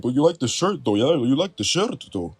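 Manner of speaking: a hint of a put-on Scottish tease; teasing Drew quote. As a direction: needle him about the shirt. Drew teasing Adam Pearce.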